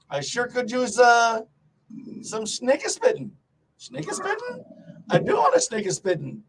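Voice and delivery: mock German. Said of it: "taking words and making them German".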